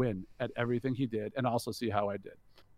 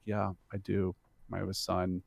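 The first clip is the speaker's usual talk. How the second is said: subdued, slightly lowered retold sadness; super sad; 3 semitones lower than usual. Father talking of his son's college application, mildly sad. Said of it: "he got super sad".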